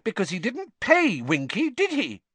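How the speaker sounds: very high, loud, rising outrage; still rising shrilly. A narrator's reading. Girl shrilly pressing her point against Percy. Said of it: "her voice rising shrilly".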